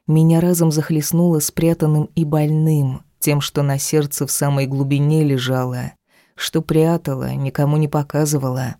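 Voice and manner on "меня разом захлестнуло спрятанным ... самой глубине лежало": usual speaking voice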